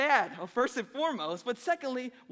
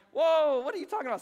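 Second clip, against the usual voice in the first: a loud startled Whoa that settles into disbelief; surprised whoa; 5 semitones higher, 6 dB louder than usual. Retold or imitated. Husband reacting to his wife's lizard panic: loud startled whoa. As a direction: pull back in mock alarm, Whoa. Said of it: "I'm like".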